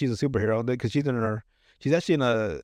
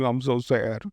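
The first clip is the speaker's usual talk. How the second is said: mock sad voice; 2 semitones lower than usual. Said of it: "never seen someone saddy before like that".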